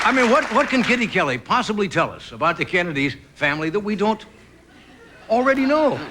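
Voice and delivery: building incredulity. Acted.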